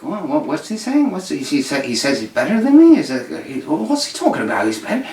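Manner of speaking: mildly affronted, questions tumbling out; indignant cat. Acted. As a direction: pitch jumping up in disbelief. Acts the British cat indignant at rival.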